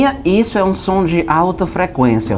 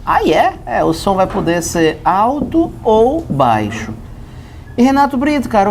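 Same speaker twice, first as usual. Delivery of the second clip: normal talking voice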